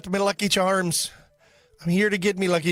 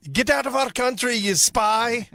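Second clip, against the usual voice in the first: higher, mock-indignant order; outraged Irish locals; 6 semitones higher than usual. Pub locals reject a tea drinker, mock outrage. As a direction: playfully throw out a suspected spy. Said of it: "and they're like".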